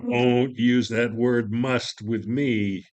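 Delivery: stern rebuke. Acted. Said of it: "You must allow me".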